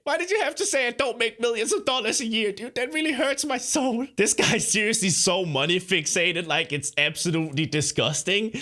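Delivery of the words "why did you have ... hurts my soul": mock hurt. Mock hurt at clip's remark.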